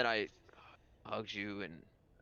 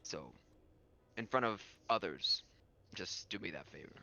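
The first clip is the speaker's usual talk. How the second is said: composed lord character; 3 semitones lower, faster than usual. Acted. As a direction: ask a discreet favor, with hesitant pauses. Game master voices the lord.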